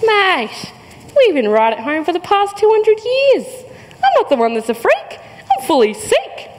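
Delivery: cheeky, high mock-friendly Mate; tongue in cheek. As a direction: grin through it, a gentle jab. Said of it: "I reply with a smile, tongue in cheek".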